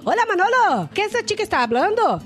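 lightly acted puzzled local calling out; imitating bakery woman. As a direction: call over in imitated Spanish. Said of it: "chegou até na frente do carro e falou assim".

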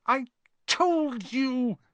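high gasped reproach; Hermione. A narrator's reading. Girl with a stitch repeating herself, gasping. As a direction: drag the words out, short of breath. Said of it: "Hermione gasped, clutching at the stitch".

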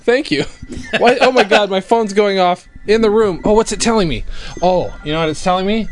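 high, giggly and loud; laughing. Real, not acted. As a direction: chuckle your way through it. Laughing, phone going off.

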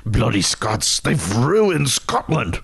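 put-on mild Scottish accent, slow on the second line; a Groundskeeper Willie style Scottish voice, lightly done; lightly voiced Scottish cartoon groundskeeper; Scottish brogue. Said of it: "whip out your Scottish brogue".

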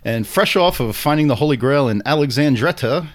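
big introduction voice; talk show announcer. Acted. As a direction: announce the guest grandly.

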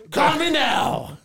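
laughing through the words; can't hold the laugh in. Real, not acted. Laughing during Miss Cleo bit.

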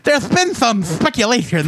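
lisping cartoon duck; Daffy Duck voice. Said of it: "talks like Daffy Duck".

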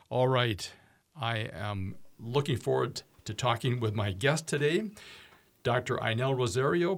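upbeat, even radio announcer read; radio host intro read. Acted. Host welcoming radio listeners to the show, announcer read.

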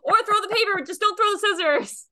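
high, loud cheery teacher voice; teacher voice to kids. Pretend. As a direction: greet toddlers like a chirpy teacher. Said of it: "I'm like".

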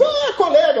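high, delighted greeting; the crew happily calling him a colleague; friendly surprise. Retold or imitated. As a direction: welcome him as a fellow pilot.

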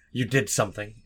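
accusatory. Retold or imitated. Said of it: "in a very accusatory tone".

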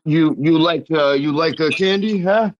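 high, wheedling creep offering candy; creepy stranger. Retold or imitated. Joking about New York, mimicking a creepy alley stranger luring someone.

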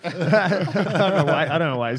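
real laughter through the words, loud and high; laughing. Real, not acted. Storyteller amused by own accent slip, laughing. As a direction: crack up while talking.

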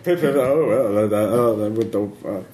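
a touch of posh British, slowed at the end; light mock-British bobby, hesitant; British accent. Policeman apologises to tourists in a mild British accent. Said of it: "Oh, British".

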